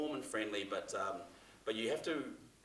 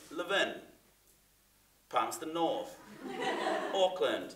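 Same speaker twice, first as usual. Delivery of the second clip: regional tagline read; 5 semitones higher, 4 dB louder, slower than usual. Shown as a demonstration. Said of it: "I recorded that bit".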